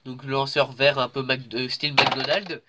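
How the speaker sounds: stuffy nose voice; talking through a blocked nose. Real, not acted. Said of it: "j'ai le nez bouché".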